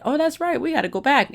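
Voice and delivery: high, surprised mock gasp of remembering; sudden realization. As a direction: act out the moment it dawns on you. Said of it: "we said".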